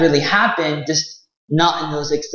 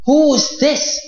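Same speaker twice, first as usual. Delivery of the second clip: queen voice; 7 semitones higher than usual. Acted. Queen voiced in told story.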